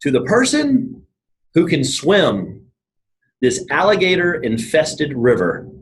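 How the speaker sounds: slow, grand royal announcement; king's proclamation. Retold or imitated. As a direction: proclaim it slowly like a king to his subjects. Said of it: "he makes his huge announcements and he goes".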